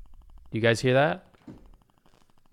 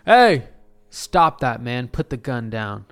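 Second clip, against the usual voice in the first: firm call out; 5 dB louder, slower than usual. Retold or imitated. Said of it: "I'm like".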